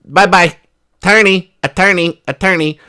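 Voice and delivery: mock breezy brush-off with attorney chant; dismissive brush-off. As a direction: shoo them off, then call for a lawyer. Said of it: "And you go".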